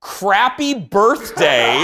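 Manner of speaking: slow mock British accent with a laugh; drawn-out British headline voice, laughing. Host reading a tabloid headline in a laughing British accent. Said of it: "That was a nice accent".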